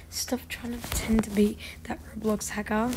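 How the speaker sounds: hushed whisper to the screen. Real, not acted. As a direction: whisper it under the breath. Teasing a player mid-game.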